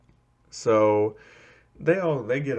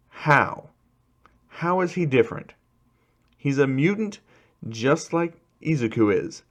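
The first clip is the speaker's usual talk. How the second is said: higher-pitched, challenging questions; indignant challenge; 5 semitones higher than usual. Acted. Classmate defends him against the class, indignant. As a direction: challenge them with mild indignation.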